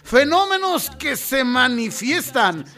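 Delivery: slow, dramatic mystery narrator; spooky radio narration. Acted. Host opening the strange-stories segment, slow dramatic mystery voice. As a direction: draw out each line like a creepy tale.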